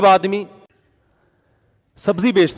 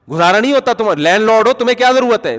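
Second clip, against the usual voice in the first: indignant tenant; 6 semitones higher, 5 dB louder than usual. Retold or imitated. Mocking tenant's excuses.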